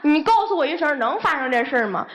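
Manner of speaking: high-pitched, exasperated reproach; real heated scolding. Real, not acted. Girlfriend scolds boyfriend for not answering his friend, heated reproach. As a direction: press the accusation home, exasperated.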